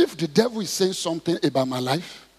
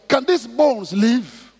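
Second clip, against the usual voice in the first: God's challenge; 6 semitones higher, 5 dB louder, much slower than usual. Retold or imitated. Voices God questioning Ezekiel.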